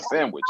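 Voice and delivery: "Sandwich" with no D, san-wich; "Sandwich" said briefly, the D left out; everyday pronunciation. Shown as a demonstration. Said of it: "S A N W I C H".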